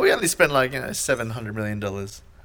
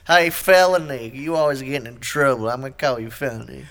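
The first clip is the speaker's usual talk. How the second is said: trailer park parent. Acted. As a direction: put on a trailer park parent scolding a kid. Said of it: "park meth having white people".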